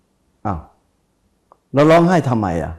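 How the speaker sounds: teacher's gentle scolding. Retold or imitated. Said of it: "อาจารย์ผมพูดอย่างเงี้ย".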